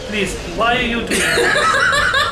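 hammed-up pleading in faked French; mock French accent. Ambassador begging dragon son to stop, mock French accent. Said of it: "Go back to French".

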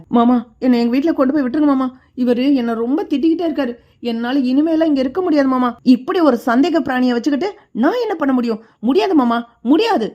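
hammed-up fake tearful plea, quick; fake crying plea. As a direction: put on a tearful act to win the father-in-law over. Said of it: "தங்கமயில அழுது drama பண்றாங்க". (போலி அழுகையுடன் வேகமான கெஞ்சல்)

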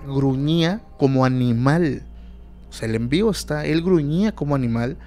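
normal talking voice

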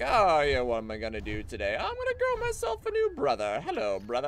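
a lightly voiced happy clone; chipper clone voice. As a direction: play a cheerful clone greeting his copy. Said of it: "And it's just like".

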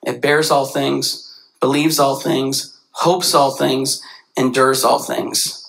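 slow, measured recitation; scripture reading. Acted. Preacher reading First Corinthians to the church, slow. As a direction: read each clause with weight.

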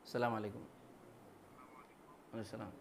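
hushed voice into a phone; whispering on the phone. Real, not acted. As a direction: whisper a phone greeting in class. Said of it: "ভাই, ক্লাসে আছি কেন, একটু পরে phone দিন".

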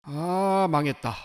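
low, soft groaning resignation; dejected. Acted. Customer seeing his ruined tattoo, low and dejected. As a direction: let it sink, quiet and defeated.

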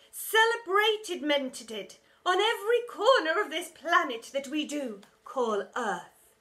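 loud, high, showy teacher; rally the school like it's all about you; pompous teacher. A narrator's reading. Art teacher rallying the assembly, loud and grand.

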